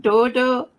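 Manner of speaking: Dodo with a Geordie vowel; Geordie accent. Retold or imitated. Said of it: "Say Dodo in a Geordie accent".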